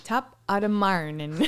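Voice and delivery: a slow, careful Irish brogue; Irish accent. Pretend. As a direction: slowly try the brogue again. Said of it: "till you get it right".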